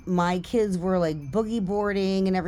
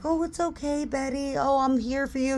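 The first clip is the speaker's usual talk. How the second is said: very high, swooning mock comfort; imagined tender rescuer; 9 semitones higher than usual. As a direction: coo like a fantasy hero, hammed up. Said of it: "he's gonna be like".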